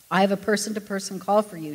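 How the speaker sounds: put-on scolding like a teacher to a child. Operator scolding Ken like a teacher, stern. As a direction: talk down to him like a stern teacher. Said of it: "with the tone of a teacher scolding a child".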